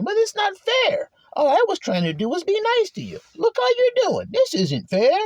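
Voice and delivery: mock crybaby protesting unfairness; whiny crying complaint. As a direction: whimper it like a wounded child. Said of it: "and then you start saying".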